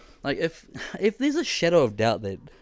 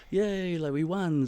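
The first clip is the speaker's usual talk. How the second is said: celebrating; 6 semitones higher, slower than usual. Retold or imitated. Mimes staff celebrating.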